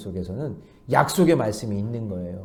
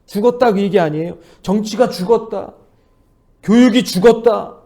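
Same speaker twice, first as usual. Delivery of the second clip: louder and higher with each item; rising lament list; 7 semitones higher, 7 dB louder than usual. Retold or imitated. Pastor echoing the crowd's laments, building louder. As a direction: stack the "dead" claims louder. Listing what people say died.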